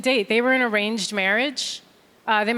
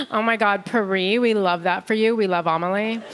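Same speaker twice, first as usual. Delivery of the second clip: gushing American friends; 2 semitones lower than usual. Retold or imitated.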